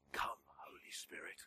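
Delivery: softly whispered mock invocation. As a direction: whisper it like a hushed worship leader. Leader invoking Spirit, mocked.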